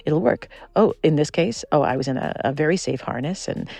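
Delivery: cajole your own body like a pushy friend; coaxing brain. Retold or imitated. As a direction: brain urging a reluctant body to zip line. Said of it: "my brain will be like".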